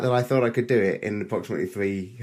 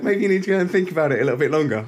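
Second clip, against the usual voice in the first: mum's reply; 6 semitones higher, 6 dB louder, faster than usual. Retold or imitated. Mum sends him back.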